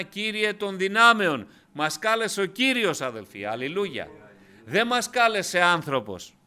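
preacher's ringing declaration; exultant preaching. Real, not acted. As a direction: proclaim the verse to the congregation. Preaches from scripture.

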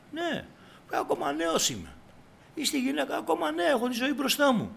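very high mock young voice; self-excusing youngster. Preacher mimics someone saying life lies ahead, high-pitched mock excuse.

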